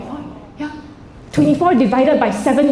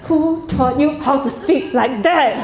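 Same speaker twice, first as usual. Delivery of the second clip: inner exasperation; slower than usual. Retold or imitated. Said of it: "inside I go".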